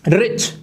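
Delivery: रिच said in one single sound; one unbroken syllable. Shown as a demonstration. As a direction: say रिच whole, without splitting it. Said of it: "एक ही आवाज में बोल देते हो". (रिच एक ही आवाज़ में, बिना तोड़े)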